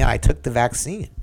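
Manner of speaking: a touch of excitement, lifted pitch; excited retelling. Retold or imitated. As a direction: imitate mom proudly announcing her news. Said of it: "she very excitedly told me".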